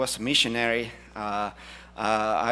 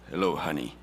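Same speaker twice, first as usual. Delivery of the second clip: low, croaky lost voice; hoarse voice; 9 semitones lower, faster than usual. Retold or imitated. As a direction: rasp it like a lost voice. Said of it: "she lost her voice".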